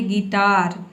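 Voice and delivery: गिटार with the final र fully sounded and held; गिटार ending on a clear, slightly long र; Hindi full r. Shown as a demonstration. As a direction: say गिटार with a complete र at the end, Hindi style. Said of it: "र का पूरा sound देना है".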